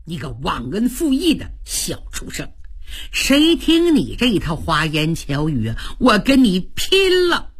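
storyteller's angry warrior rebuke; acted indignant outburst. Shan rejects the traitor's flowery talk, acted indignation.

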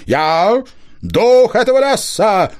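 high, slow, ringing command of a forest spirit; ringing booming voice. A narrator's reading. Spirit voice from the hollow commanding the hunter, ringing and rolling. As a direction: boom it out like a hidden spirit.

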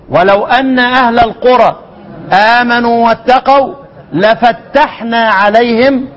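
slow recitation, doubled t in "لفتحنا"; drawn-out verse with geminated ت in "لفتحنا". Shown as a demonstration. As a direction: recite slowly and hold the ت of "لفتحنا", la-fattahna. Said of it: "وها هنا فتحنا. وفي الأعراف".

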